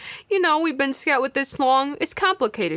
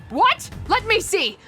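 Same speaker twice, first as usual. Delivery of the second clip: high, startled demand to look; startled reaction; 9 semitones higher, slower than usual. Acted. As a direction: react with sudden alarm. Startled reaction to murder news.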